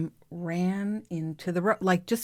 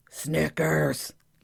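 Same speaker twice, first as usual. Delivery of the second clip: deep, low, dropped voice. Calling a dog named Snickers on the road, low-voiced yell of 'Snickers'. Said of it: "Like that. You got to do the low voice".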